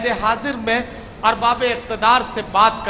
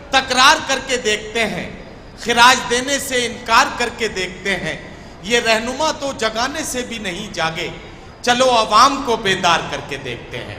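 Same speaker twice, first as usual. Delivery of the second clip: poem recitation. Acted. Host recites couplet.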